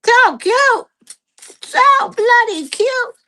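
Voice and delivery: breathless, high gushing; short of breath, squeaking it out; shallow breathing. Real, not acted. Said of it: "I can't get my breath".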